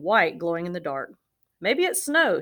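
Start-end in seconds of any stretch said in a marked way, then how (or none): 1.6-2.4 higher, louder eager guess; thrilled at the sight; excited. A narrator's reading. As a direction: bear gasping with excitement at the snow. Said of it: "he said excitedly".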